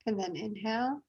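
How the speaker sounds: softly guided breathing, unhurried; breathing meditation guide. Real, not acted. Yoga teacher guiding the class's breathing, soft and calm. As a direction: settle them gently into the breath.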